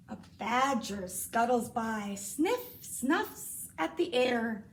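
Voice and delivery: gentle picture-book reading; reading to children. Acted. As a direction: read it like a bedtime story.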